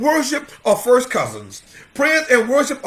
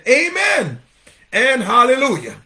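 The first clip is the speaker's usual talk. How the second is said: ringing amen; 2 semitones higher, 3 dB louder than usual. Retold or imitated. Quoting worshippers before the throne.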